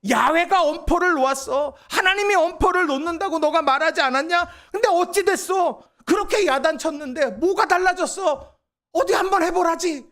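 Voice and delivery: mock him as the scoffing crowd would; mocking taunt. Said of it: "저를 비꼬아 말합니다".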